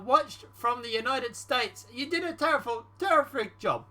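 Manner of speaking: put-on Russian accent. Reading the American president's praise, slipping into a Russian accent. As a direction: slip into a mock Russian accent. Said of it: "I keep speaking Russian".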